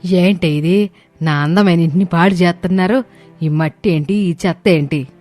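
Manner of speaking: high-pitched, scolding outburst; mother-in-law's angry yell. Acted. Mother-in-law finding pots on her rooftop, angry yelling. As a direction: scold sharply as an outraged matriarch. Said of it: "గట్టిగా అరుస్తుంది".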